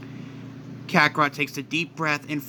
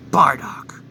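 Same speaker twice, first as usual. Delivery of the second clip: contemptuous whisper; 3 semitones lower, 4 dB louder than usual. Acted. Kakarot sneers at father's name.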